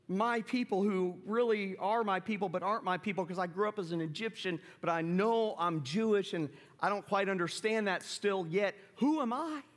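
high, incredulous, flustered Moses; panicked Moses. Shown as a demonstration. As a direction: blurt it out as if God must be joking. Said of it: "I think probably the way he said it was".

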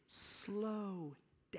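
hushed, breathy slow down; a mentor whispering to slow down; whispered warning. Retold or imitated. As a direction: drop to a whisper to rein him in. Mentor quietly warns him on sidewalk.

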